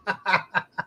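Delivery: high, shrieking laugh at the creepy picture; laughing at creepy AI image. Real, not acted. Laughing at a creepy AI picture of himself, high shrieking laugh.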